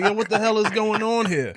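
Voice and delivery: high startled exclaiming; shocked outburst. Retold or imitated. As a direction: blurt it out in shock. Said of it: "I was like".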